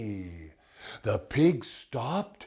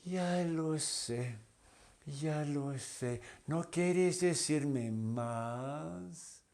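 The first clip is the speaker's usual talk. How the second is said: soft, higher teasing reply; coy butterfly; 5 semitones higher, 4 dB quieter than usual. Acted. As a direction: answer sweetly, a little coy. Butterfly answers cat.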